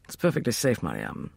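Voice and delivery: soft, dropping low; calm and low, setting someone at ease; reassuring. A narrator's reading. Father turns to reassure frightened Mariam, reassuring. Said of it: "with a reassuring smile".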